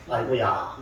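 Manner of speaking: lightly voiced Gyeongsang mother chiding; Gyeongsang accent. Mother chides her future-pastor son for drinking, Gyeongsang accent. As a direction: imitate a mother's mild scolding in Gyeongsang dialect. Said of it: "이게 경상도 사람이거든요".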